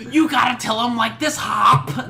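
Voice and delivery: lightly voiced frantic mother pleading; Joyce impression. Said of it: "That's how she talks".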